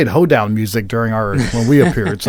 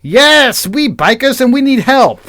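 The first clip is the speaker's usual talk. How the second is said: put-on very high, loud Asian-accented plea; 10 semitones higher, 6 dB louder than usual. Newcomer asking for help, high Asian accent. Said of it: "my Asian accent when I was doing Persis".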